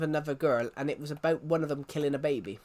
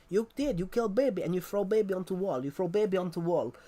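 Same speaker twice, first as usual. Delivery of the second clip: mock Russian accent; 3 semitones higher than usual. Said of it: "she's doing a Russian accent".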